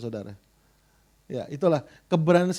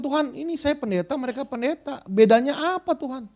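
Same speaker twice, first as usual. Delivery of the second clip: higher-pitched, plaintive plea retold; keluhan kepada Tuhan; 6 semitones higher than usual. Keluhannya kepada Tuhan, diceritakan ulang. (mengeluh kepada Tuhan dengan nada tinggi)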